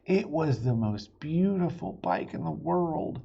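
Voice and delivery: lively read-aloud for little listeners; storybook reading. A narrator's reading. Dad reading a chapter book to his kids, animated. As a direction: read it like bedtime story time.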